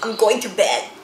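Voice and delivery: sniffly, blocked-nose voice; stuffy nose. Acted. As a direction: talk through a head cold. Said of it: "she sniffed".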